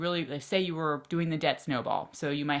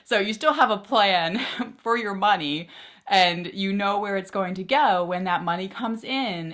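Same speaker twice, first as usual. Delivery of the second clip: giggling through the line, higher and louder; laughing; 4 semitones higher, 5 dB louder than usual. Real, not acted. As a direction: still riding the excitement. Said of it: "I'm so excited".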